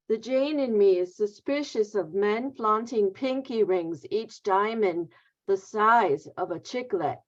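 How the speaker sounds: measured poetry-reading delivery; poem reading. Real, not acted. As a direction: read the poem line by line, pausing at breaks. Poet reads title poem aloud.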